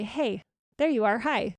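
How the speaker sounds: kind, welcoming hello with a lilting "hey"; friendly greeting. Shown as a demonstration. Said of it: "Like I would greet a friend".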